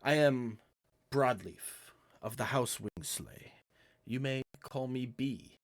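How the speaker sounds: a hint of a courtly cat charming them; understated Puss in Boots charm; Puss in Boots manner. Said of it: "A very Puss in Boots type demeanor".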